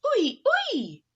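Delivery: high, loud sad wail; sad agreement. Acted. Missus Poodle agreeing with Missus Bulldog, a high sad wail. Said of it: "agreed sadly".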